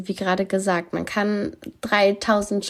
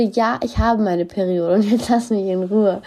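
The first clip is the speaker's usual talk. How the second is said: annoyed reply. Retold or imitated. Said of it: "was mich immer richtig nervt".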